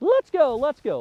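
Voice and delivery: very high, playful, yelp-like call. Teaching how to call a dog to play, a yelping play call. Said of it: "like a yelp to play".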